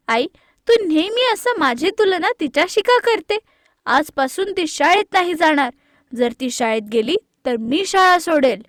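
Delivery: loud, high-pitched angry protest; angry outburst. Acted. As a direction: throw the accusation at mom. Kavya angrily confronts mother.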